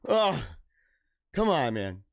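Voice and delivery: low, resigned little plea; deflated plea. Retold or imitated. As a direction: drop the pitch and give up on haggling. Acted haggler giving up.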